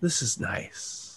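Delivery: gentle, soft whisper close to the ear. Narrating a game, voicing a woman with her hand on a character's shoulder: soft voice in the ear. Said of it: "you hear a soft voice in your ear".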